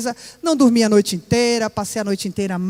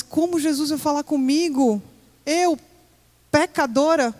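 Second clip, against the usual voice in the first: higher, stunned disbelief; incredulous; 6 semitones higher, slower than usual. Retold or imitated. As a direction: ask it as if it cannot be true. Disbelief that Jesus speaks to her. (incrédula, com a voz subindo de espanto)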